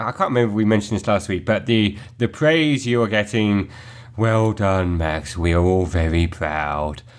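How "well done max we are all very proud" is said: low, slow, flat, deadpan, unconvincing tone. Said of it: "you don't sound very proud".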